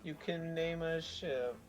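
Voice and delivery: sounding interested. Real, not acted. Reacting to a trailer for a game, sounding interested. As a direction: let interest slip out, slowly. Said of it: "I don't know why I keep sounding interested".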